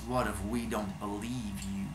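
put-on big guy quietly threatening the white boy; really quiet. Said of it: "really quiet like".

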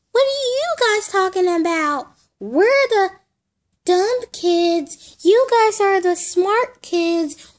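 put-on high, loud kid character voice; squeaky doll voice. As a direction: play the dumb kid doll, brash.

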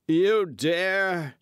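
high, loud outraged outburst. Acted. The judge to the masked rider, high outraged outburst. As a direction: splutter it in high fury.

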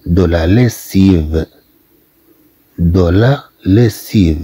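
دو لا ليسيف said slowly, s clear; slow French demo. Shown as a demonstration. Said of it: "ثم عندنا". (نطق دو لا ليسيف ببطء)

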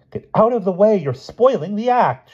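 very high, imperious scolding; haughty. A narrator's reading. La Gloria to children in the ring, haughtily. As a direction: order them off like a grand star. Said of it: "she said haughtily".

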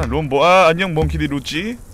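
usual speaking voice

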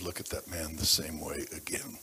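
whispered, soft and moved; hushed whisper. Real, not acted. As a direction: drop to a breath of a whisper. Moved pastor recalls vow.

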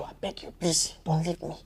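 breathless hushed begging; husband whispering to calm his wife; whispered plea. Acted. Husband pleads.

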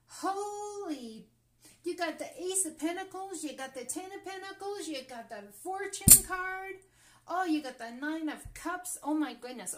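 high, loud, rushing with thrill; can barely contain the excitement over the cards; too excited. Real, not acted. Reader to viewers over lucky cards, overexcited. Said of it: "Getting too excited here for my own good".

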